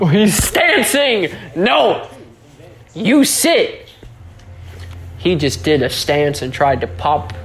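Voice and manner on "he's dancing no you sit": high-pitched pet-scolding commands; playful alarm. Pretend. Podcaster orders a posturing toy bear down, high mock alarm.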